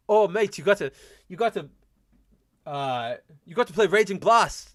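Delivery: bad English accent. Streamer imitating friend Josh praising Raging Blast, in a bad English accent. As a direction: ham up an English bloke urging a mate, English accent badly faked. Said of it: "Still working on my, my English accent".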